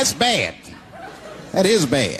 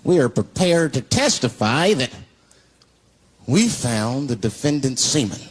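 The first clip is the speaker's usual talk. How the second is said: slow, low, grave testimony; a forensics expert gravely testifying in court; solemn forensics expert; 6 semitones lower, slower than usual. Retold or imitated. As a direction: deliver it like a deadpan expert witness. Forensics expert testifies, acted quote.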